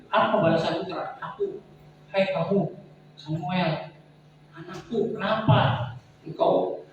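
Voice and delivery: God asking what his son gives back; firm voice of God. Retold or imitated. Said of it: "Tuhan tegas ngomongnya tuh".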